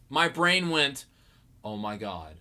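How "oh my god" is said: low, soft, stunned reaction; hushed realization. Retold or imitated. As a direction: replay a dawning shock under the breath. Retells his stunned realization.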